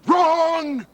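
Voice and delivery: slap the word down; sharp retort. Acted. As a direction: partner snapping back in a bitter argument. Quarrel between partners.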